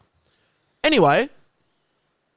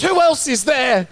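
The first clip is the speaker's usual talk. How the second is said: put-on higher, slower old lady's question; grandma calling out; 8 semitones higher than usual. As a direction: lightly voice grandma, slow and up high. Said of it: "And she goes".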